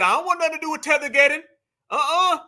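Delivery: lightly voiced Jamaican woman; imitating Jamaican woman. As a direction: mimic her brushing it off fast. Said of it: "Miss Jamaican said".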